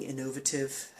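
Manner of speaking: INNOVATIVE said the British way; British pronunciation. Shown as a demonstration. Reviewer borrowing a British word-form, INNOVATIVE pronounced British-style. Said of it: "as the British say".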